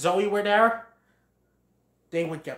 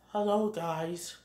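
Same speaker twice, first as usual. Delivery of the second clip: soft, slow hello; meek greeting; 6 dB quieter, slower than usual. Acted. Bambi greets his searching friends, meek soft voice. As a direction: greet them quietly and slowly.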